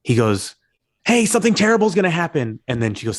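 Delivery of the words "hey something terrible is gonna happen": higher, light Bruce Wayne phone voice; a breezy public Bruce Wayne. Retold or imitated. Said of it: "his Bruce Wayne voice is kinda up here".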